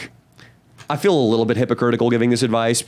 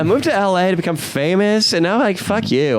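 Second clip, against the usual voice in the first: bitter failed actress; 4 semitones higher than usual. Retold or imitated. Voicing a bitter delivery driver.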